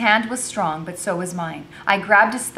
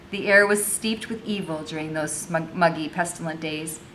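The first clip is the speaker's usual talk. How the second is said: measured read-aloud storytelling; story narration; 2 semitones higher than usual. A narrator's reading. Enslaved girl recounting her troubles, story narration. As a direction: read it out as a first-person tale.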